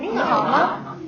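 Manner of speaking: 你好吗 with 吗 said gently; gentle neutral tone. Shown as a demonstration. Teacher models the question for students, 吗 just gentle. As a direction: keep the final 吗 in 你好吗 light, with no tone. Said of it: "Just gentle".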